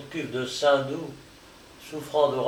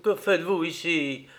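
higher-pitched angry demand; growled challenge; 4 semitones higher than usual. Acted. Limerick caught by two workmen, growled question. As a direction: challenge the intruders. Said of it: "gronda Limerick".

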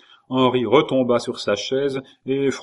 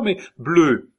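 amused; 6 semitones higher, 4 dB louder than usual. A narrator's reading. King amused by blue color.

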